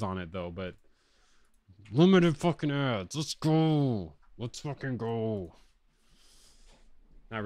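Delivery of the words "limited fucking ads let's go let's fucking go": Impression of a music producer. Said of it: "I could do a pretty good producer impression".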